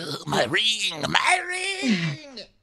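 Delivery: excited, very high-pitched, very slow exclamation. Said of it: "hiding in a tree, like".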